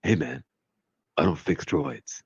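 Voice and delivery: slow, laid-back brush-off; lightly voiced, shrugging it off; Mister Terrific voice. Friend voicing Mister Terrific refusing to fix droids, slow. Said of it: "That's my Mister Terrific voice".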